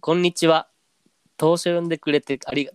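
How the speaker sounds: robotic standard Japanese read; stiff Siri voice. Acted. Host reading a letter like Siri. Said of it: "シリみたいな喋り方だった。".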